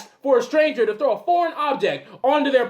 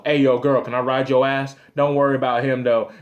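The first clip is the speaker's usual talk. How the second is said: low sleazy voice; 10 semitones lower than usual. Retold or imitated. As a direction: purr the line like a creep. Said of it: "Walk up to the couple".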